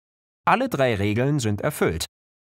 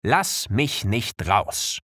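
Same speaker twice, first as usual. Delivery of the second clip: the letter H pleading; much slower than usual. Pretend. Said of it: "das H würde bei Wörtern mit diesen Buchstaben sagen".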